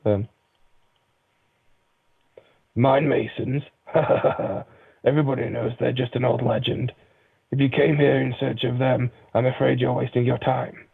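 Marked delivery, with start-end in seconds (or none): 2.7-10.9 a hint of the innkeeper, barely changed; lightly voiced innkeeper dismissing the quest. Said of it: "The same voice".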